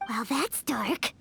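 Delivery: low, slow deadpan; flat unimpressed reply. Real, not acted. Paimon responds to Hu Tao's morbid joke with low slow deadpan.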